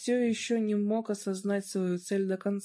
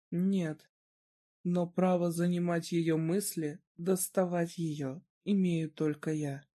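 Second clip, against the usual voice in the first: icy voice; slower than usual. Acted. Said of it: "произнёс ледяным голосом".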